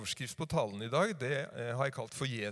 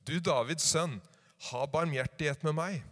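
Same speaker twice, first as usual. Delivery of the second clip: calling even louder; 5 dB louder than usual. Acted. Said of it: "ropte bare enda høyere".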